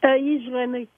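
reads énergie spelled backwards as E I G N E; backwards speech. Shown as a demonstration. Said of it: "t'es capable de nous le faire tout de suite à l'envers".

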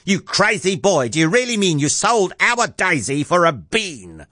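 high-pitched mother's disbelief; outraged cry. A narrator's reading. Startled mother scolding Jack for selling the cow, outraged cry. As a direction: cry out, appalled at the boy. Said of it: "leapt high up in the air and cried".

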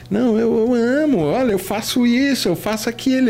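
squeaky defensive excuse; high pleading protest. Retold or imitated. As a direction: pitch it up like a flustered kid explaining himself. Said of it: "tentar falar".

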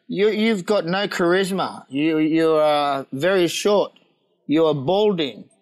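slow, halting imitation of the director; Japanese commercial director. Director lists the actor's faults, slow deliberate imitation. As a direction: spell out each criticism slowly and deliberately. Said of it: "The bloke, he said".

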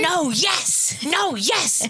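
put-on high toddler voice. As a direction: play the confused little girl. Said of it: "the theme of the trip for Minnie".

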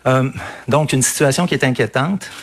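slightly winded through a face mask; short of breath from talking in a mask. Real, not acted. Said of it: "quelqu'un qui a l'air un peu essoufflé".

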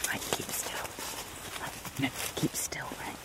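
urgent hushed whisper. Real, not acted. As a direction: whisper so the dog can't hear. Hiding from dog behind tree.

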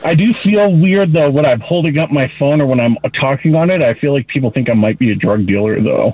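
phone speaker sound; talking on a speakerphone. Real, not acted. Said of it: "surprisingly clear".

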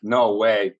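drawn-out exclamations with leaping question endings; acted amazement. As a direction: play at being astonished in basic English. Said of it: "decía".

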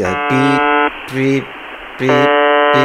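high, loud beep imitation; imitated beeping. Shown as a demonstration. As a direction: go "pi" like an electronic beep. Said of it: "Porque hace, sí".

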